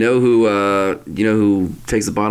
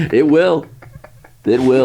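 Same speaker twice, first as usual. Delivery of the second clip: excited insistence; 6 semitones higher, 4 dB louder than usual. Real, not acted.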